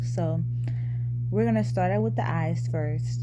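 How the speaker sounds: talking around retainers; slightly lisped speech from retainers; wearing a retainer. Real, not acted. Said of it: "so that's kinda why I'm talking weird".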